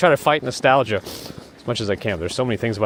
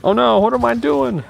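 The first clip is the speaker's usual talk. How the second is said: surprised; 6 dB louder than usual. Real, not acted. Fumbling with the phone.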